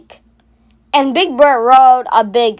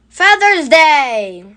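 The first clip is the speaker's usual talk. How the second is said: slow, drawn-out punchline voice; milk the punchline slowly; joke punchline; 3 semitones higher, slower than usual. A narrator's reading. Bert telling his bird joke, slow drawn-out punchline.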